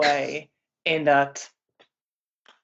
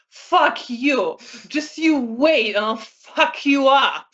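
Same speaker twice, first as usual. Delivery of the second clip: put-on raised, higher snarl of a furious young man; angry threat; 7 semitones higher, slower than usual. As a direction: spit the threat out, ready to lunge. Arek threatens the man angrily.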